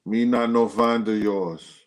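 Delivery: slow, lightly put-on Jamaican accent; a hint of Jamaican patois, drawn out slow. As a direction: quote him in a mild Jamaican accent. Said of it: "he said it in the Jamaican voice".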